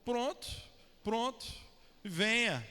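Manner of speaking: rising Bahian "pronto" repeated, then "venha"; Bahian accent. Retold or imitated. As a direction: sing out "pronto" like a Bahian local. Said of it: "aqui na Bahia todo mundo fala assim".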